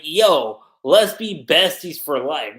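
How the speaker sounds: loud, drawn-out buddy offer; exaggerated best-friend enthusiasm, slowly stretched; mock chummy. Mocking the wrong reading of his face, chummy and loud. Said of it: "He's not viewing this as".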